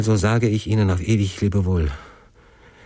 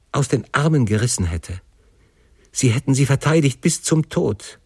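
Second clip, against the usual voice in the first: raised, urgent pleading; understated anguished appeal; imploring; 4 semitones higher than usual. Acted. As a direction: beg your father to relent, pitch held high. Son implores father on his knees.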